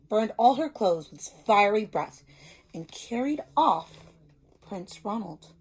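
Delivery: put-on reading a picture book to young children; storybook reading. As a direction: tell it like a teacher at story time. Teacher reads picture book aloud.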